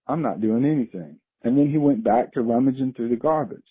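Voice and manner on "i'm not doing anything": unbothered bear, understated; nonchalant. Retold or imitated. Bear answering the man who shooed it, nonchalant. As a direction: toss it off coolly, as if nothing matters. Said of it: "looked over at me very nonchalantly".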